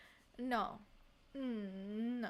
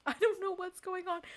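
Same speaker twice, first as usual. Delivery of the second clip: laughing bafflement; 5 semitones higher than usual. Real, not acted. Repeat with laugh.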